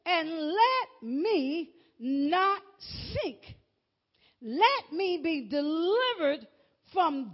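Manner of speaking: slow, drawn-out psalm reading; scripture reading. Acted. Preacher reading David's plea to God, slow and drawn out. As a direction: stretch each phrase, pausing between. Reads the psalm aloud in sermon.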